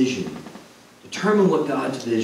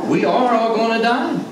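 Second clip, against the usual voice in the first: calm reply; 7 semitones higher than usual. Retold or imitated. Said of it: "my response would be".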